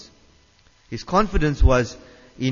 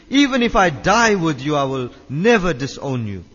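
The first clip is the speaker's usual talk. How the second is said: emphatic insistence; 4 semitones higher than usual. Retold or imitated. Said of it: "Peter insisted emphatically".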